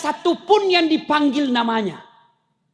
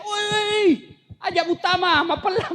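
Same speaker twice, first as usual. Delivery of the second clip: mock Bugis shout; 4 semitones higher than usual. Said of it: "dia teriak".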